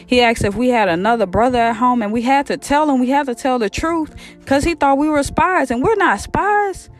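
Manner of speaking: acted flustered over-explaining; nervous rambling. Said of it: "they just rambling on. They so nervous".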